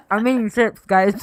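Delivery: eating while talking; crunching chips. Real, not acted. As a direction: talk through a mouthful of chips. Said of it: "Can you hear me crunching?".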